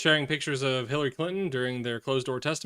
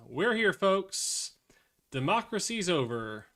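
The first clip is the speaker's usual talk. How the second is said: grim sarcasm; 5 semitones higher, slower than usual. Real, not acted.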